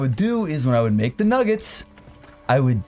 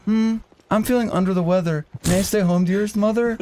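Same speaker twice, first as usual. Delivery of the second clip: higher, fake-sick pleading voice; mock sickly kid; 7 semitones higher than usual. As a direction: ham up feeling poorly.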